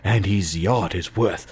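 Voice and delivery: very slow, drawn-out showman announcer; Robin Leach impression. Cohost imitating Robin Leach's drawn-out luxury voice. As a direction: savour each word like a lavish TV host. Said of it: "He's like".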